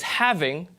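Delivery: "having" ending in a clear -ing. Shown as a demonstration. Lecturer demonstrates mainstream US "having", full -ing. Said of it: "Speaker A says".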